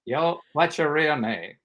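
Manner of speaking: slow imitation of a famous actor; Morgan Freeman. Star asks the speaker his name, slow imitation. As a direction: ask it slowly, with measured authority. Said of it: "And then he goes".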